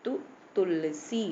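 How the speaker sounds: तुलसी with a short, quick "tu" tried first alone; quick short vowel. Shown as a demonstration. Teacher showing the short u matra is quick, short first syllable. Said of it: "ये भी जल्दी से बोल दिया".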